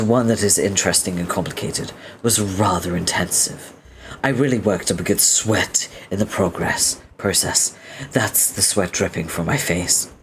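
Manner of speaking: formal, self-serious speech; verbose, earnest hero. Acted. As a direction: deliver a pompous life lesson, evenly. Reads verbose character's speech.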